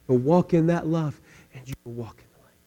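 ordinary talk

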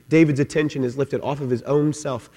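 normal talking voice

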